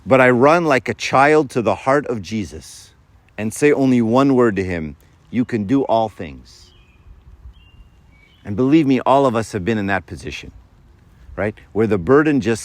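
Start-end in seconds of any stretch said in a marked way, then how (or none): 0.0-6.7 unhurried, devout quoting; reverent quote reading. Acted. Reciting quote slowly, reverently.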